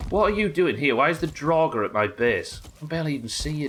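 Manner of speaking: loud, high-pitched challenge; indignant outburst. Real, not acted. Player confronting a Draugr at the base, indignant. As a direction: demand an answer from the intruder, voice jumping up.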